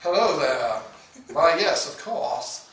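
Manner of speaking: prim, upper-class greeting; posh proper voice. Pretend. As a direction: play a stiff refined lady. Demonstrating posh posture.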